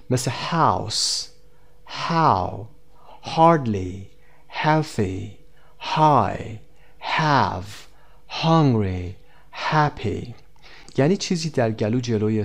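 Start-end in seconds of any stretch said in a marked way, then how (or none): 0.3-10.3 word list, each opened with an audible breathy H in "house", "how", "happy"; sounded H. Shown as a demonstration. Teacher shows learners how H is usually pronounced, sounding each initial H. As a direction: say "house", "how", "hardly", "happy" singly, letting air out freely on each H.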